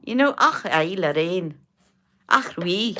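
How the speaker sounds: put-on a half-hearted, jokey Scottish accent, "ach" thrown in; bad Scots accent. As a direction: mimic Lorraine's Scottish lilt, not very well. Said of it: "sorry for my Scots accent, which was not very good".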